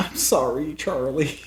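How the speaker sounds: high, put-on sobbing, tearful voice. Recalling a movie character crying: imitating Shaw crying. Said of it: "I just remember her crying".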